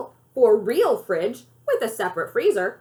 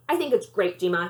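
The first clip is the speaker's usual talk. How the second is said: forced enthusiasm; 4 semitones lower than usual. Acted. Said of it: "he says with forced enthusiasm".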